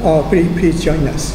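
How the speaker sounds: ordinary delivery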